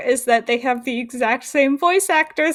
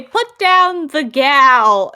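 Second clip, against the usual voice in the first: slow hammed-up hero line; 2 semitones higher, 4 dB louder, much slower than usual. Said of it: "And they say".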